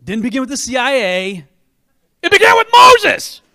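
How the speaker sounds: loud, high triumphant shout; shouted proclamation. Real, not acted. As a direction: proclaim it to the whole room. Climactic proclamation.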